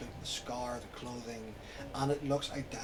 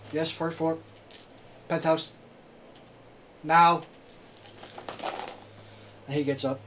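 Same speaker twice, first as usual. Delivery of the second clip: guard orders; 2 semitones higher, 6 dB louder than usual. Acted.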